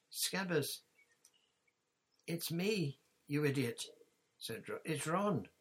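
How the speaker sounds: hissed. Acted. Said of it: "Ron hissed".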